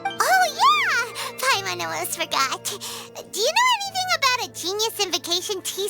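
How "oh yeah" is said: high, excited realization; sudden remembering. Acted. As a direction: jump on it as it comes back to you.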